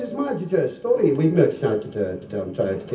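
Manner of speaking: mock stammer; stammering punter. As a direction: stick on the syllables, running down in pitch. Stuttering punter in a joke.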